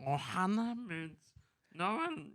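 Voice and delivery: high, soft cartoon creature voice; imitating Stitch. Friend doing Stitch's line in a funny voice. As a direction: squeak it out like a little alien. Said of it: "You sound like Yoda".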